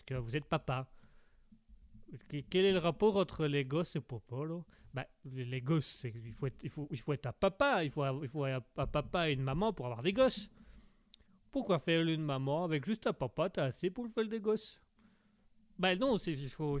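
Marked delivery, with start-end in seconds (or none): 2.3-4.6 put-on puzzled Québécois accent; puzzled Québécois lumberjack. Québécois guest baffled by the host, puzzled Québécois accent. 11.5-14.8 put-on questioning Québécois accent; puzzled Québécois lumberjack. Québécois guest argues with the host, puzzled Québécois accent.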